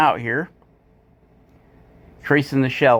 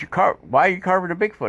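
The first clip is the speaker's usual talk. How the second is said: imitating Jordy; 5 semitones higher, faster than usual. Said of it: "he goes".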